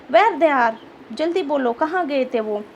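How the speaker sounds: rich man barking an order to answer fast; insist, hurry him up; commanding. Acted. Rich man orders the boy to answer quickly, commanding. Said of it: "order दे रहा था".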